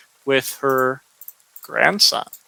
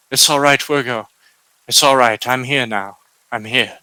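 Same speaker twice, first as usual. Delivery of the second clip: gentle reassurance. Acted. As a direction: comfort her gently, a little subdued. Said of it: "gives her what hug he can".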